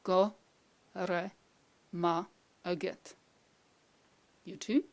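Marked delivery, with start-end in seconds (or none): 0.0-3.1 "Go, re, ma, agat" one piece at a time; long pauses between Go, re, ma and agat; slow, separate sounds. Shown as a demonstration. Teacher giving individual sounds to repeat, slow and separated. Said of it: "I say it slowly a couple of times".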